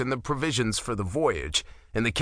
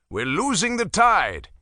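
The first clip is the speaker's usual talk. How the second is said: higher, louder call; 8 semitones higher, 4 dB louder than usual. Acted. Mjolnir hurries the crew, calling out. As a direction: call it across the deck. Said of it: "he called".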